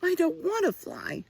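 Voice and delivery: high, frightened owlet cry; a little owl refusing in fear; crying out scared. A narrator's reading. Little Owl telling the fawn she won't fly, high and scared. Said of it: "cried Little Owl".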